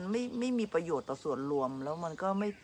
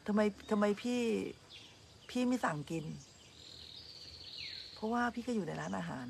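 inner thought; 3 semitones higher, 7 dB quieter than usual. Retold or imitated. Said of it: "คิดในใจ".

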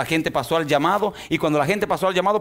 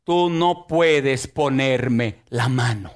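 calm firm rebuke; 4 semitones lower, much slower than usual. Retold or imitated. Pastor facing a possessed man.

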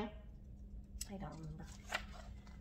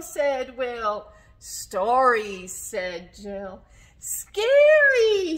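put-on story reading to children; 11 dB louder, much slower than usual. A narrator's reading. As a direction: punch each character's word, then drop for the name. Reads a story aloud.

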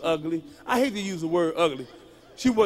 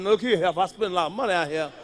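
mock furious boyfriend; angry. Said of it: "Now I'm getting angry now".

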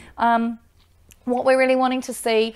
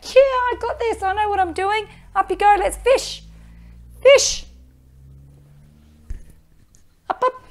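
voicing the dog; 10 semitones higher than usual. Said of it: "She's like".

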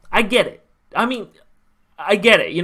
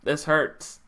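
voiced again but still much softer and lower; quiet hurt; 6 semitones lower, 10 dB quieter than usual. Real, not acted. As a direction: say it again quietly, heart sinking. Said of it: "I'm emotional now".

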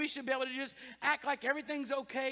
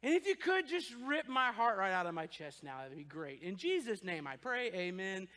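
sarcastic prayer; 5 semitones lower, 3 dB quieter than usual. Pretend.

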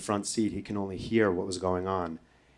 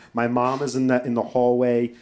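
ordinary talk, nothing marked

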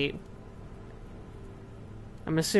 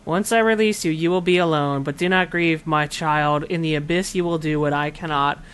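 solemn spirit voice. Acted. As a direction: speak as a gentle ghostly guide. Reads the spirit's lines aloud.

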